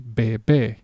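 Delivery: bebé, leaning on the last "bé"; stress on final syllable. Shown as a demonstration. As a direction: force goes on the end of bebé. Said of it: "tells me that I have to say".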